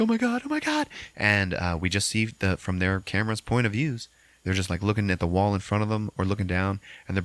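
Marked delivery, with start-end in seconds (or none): 0.0-0.9 high whimpering oh my God; terrified. Retold or imitated. Lisa hiding in the corner, high terrified whimper. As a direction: mimic terror in a thin voice. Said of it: "And she's like".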